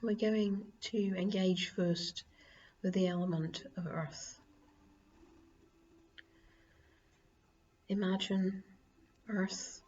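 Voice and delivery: calm meditation voice with long pauses; guided meditation. Acted. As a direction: guide them gently into grounding, phrase by phrase. Leads earth element meditation.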